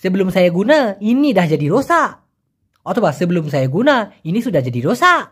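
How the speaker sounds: Malay phrase said in one smooth breath like a native; fluent native Malay delivery in a single breath; native Malaysian way. Shown as a demonstration. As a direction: run সেবলুম সায়া গুনা ইনি সুডাহ জাডি রোসা together in one go, Malaysian style. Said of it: "এক টানে যদি একদম খোদ মালয়েশিয়ানদের মতো বলি".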